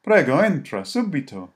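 high, loud urgent welcome. A narrator's reading. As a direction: hurry them in out of the snow. Monk urges them inside.

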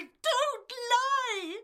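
high, loud snap; angry shout. Acted. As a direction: cut him off furiously. Accusing husband of lying.

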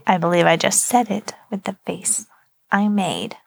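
spoken up, last words whispered. Real, not acted. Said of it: "You also have to talk into the microphone".

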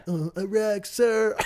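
high-pitched put-on recruit reply; meek recruit imitation. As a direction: answer high, as the picked-on trainee. Imitating the picked-on recruit answering.

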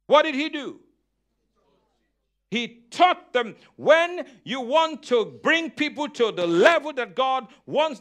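punchy sermon cadence, leaning on key words; emphatic preaching. Real, not acted. Preacher teaching the congregation the gospel, emphatic preaching. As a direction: declare scripture with conviction.

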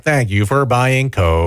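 slow flat robot voice. Retold or imitated. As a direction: say it like a vending machine robot. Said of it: "Was it like a robot voice".

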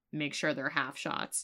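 hushed mock conspiratorial instruction; leaning in. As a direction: lean in and keep it from the workers. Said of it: "he leans in".

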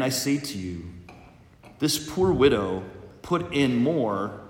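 solemn liturgical proclamation; Gospel reading. Acted.

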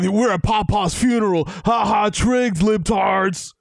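hammed-up triumphant taunt, last words stretched out; goading, drawn-out mock jeer; mock gloating. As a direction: crow it at your enemies. Voices defiant supporters at funeral.

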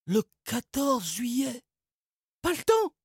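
put-on high girl voice interrupting; Margot cutting in. A narrator's reading. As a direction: cut him off briskly. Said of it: "le coupa Margot".

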